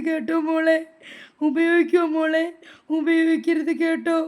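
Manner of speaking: coaxing admonishment. Acted. Grandmother warning the child off the phone, coaxing admonishment. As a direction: coax and caution a crying child.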